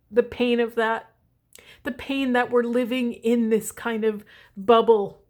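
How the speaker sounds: moved by felt pain; halting, as if feeling the hurt; real, heartfelt ache. Real, not acted. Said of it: "I just got full body chills".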